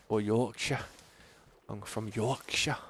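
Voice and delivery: broad, amateur Yorkshire accent; hammed-up Yorkshire accent, drawn out on the county name; attempted Yorkshire accent. Shown as a demonstration. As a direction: have a rough go at a Yorkshire accent. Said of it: "I can't do accents very well".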